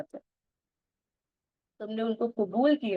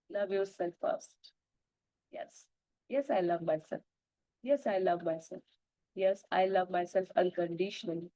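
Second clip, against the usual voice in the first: slow, soft self-love vow; soft affirmation; 6 dB quieter, much slower than usual. Acted. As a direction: say it like a quiet promise to yourself.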